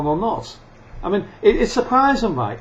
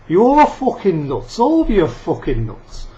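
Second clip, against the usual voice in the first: jab the word nuts at them; angry outburst; 4 semitones higher, 5 dB louder than usual. Real, not acted. Ranting at mask wearers.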